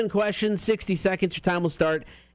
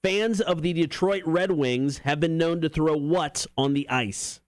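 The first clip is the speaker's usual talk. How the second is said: slower, clearer repeat. Real, not acted. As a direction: spell it out slowly for the caller. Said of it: "Can you repeat that?".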